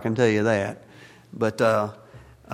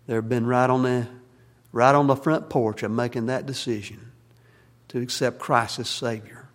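pastor's prayer. Acted. Pastor praying over the congregation, earnest prayer.

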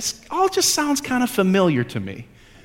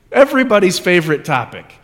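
laughing; 3 dB louder than usual. Real, not acted. Joke about sin.

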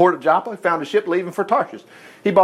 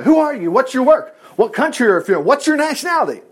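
acted interrogation; 6 semitones higher than usual. Sailors interrogating Jonah in the story.

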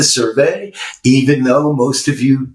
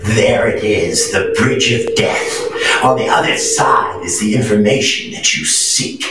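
dramatic narration; 2 semitones lower than usual. Acted. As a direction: set the scene like a quest. Epic quest scene setting.

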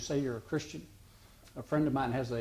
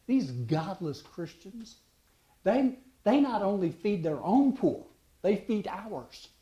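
slow, raised scoffing quote of a Roman emperor; mock scornful Caesar; 6 semitones higher, 3 dB louder, slower than usual. Caesar mocking the church, higher and slow. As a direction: sneer it like a disdainful Caesar. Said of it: "He said, uh".

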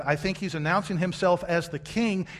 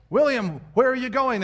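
calling out; 7 semitones higher, 6 dB louder than usual. Retold or imitated. Braveheart scene, someone calls Wallace.

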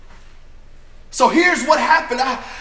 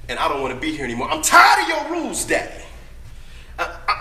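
fed-up rebellion; 3 semitones higher than usual. Acted. Son rebels against father's rules.

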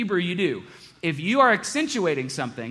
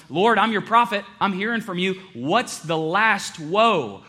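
1 pleading prophet; 5 semitones higher, 4 dB louder than usual. Acted. Isaiah pleading with God.

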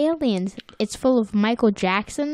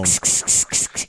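meme oops. Retold or imitated. Echoing the meme.

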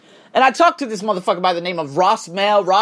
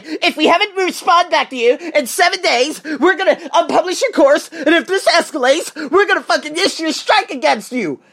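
mock threatening notice; 5 semitones higher than usual. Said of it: "Don't fucking threaten me and say".

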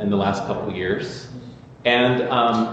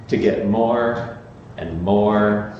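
slowing, lower, fading out; 4 semitones lower, much slower than usual. Acted. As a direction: let each more sink lower. Sermon climax, repeated words.

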